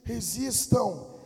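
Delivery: slow, stretched RESISTAM at normal volume; drawn-out exhortation. Real, not acted. Preacher telling believers to resist, slow measured exhortation. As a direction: hold back, stretching out RESISTAM. Exhorts, then repeats it louder.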